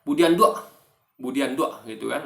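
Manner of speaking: put-on Budi Handuk in a Minang accent, final k dropped. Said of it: "orang Minang".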